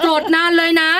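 mock sulking child. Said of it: "จะบอกเราอย่างเงี้ย".

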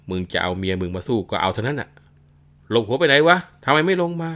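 put-on old warrior yelling, calling his son out; furious shout. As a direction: bellow a challenge at the house. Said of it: "ร้องตะโกนบอกว่า".

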